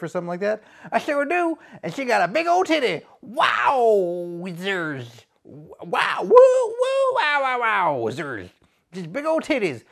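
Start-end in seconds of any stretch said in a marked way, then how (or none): 0.9-3.0 gangster boast shout. Acted. Shout heard. 3.2-8.1 loud, high woo calls; Ric Flair woo. Acted.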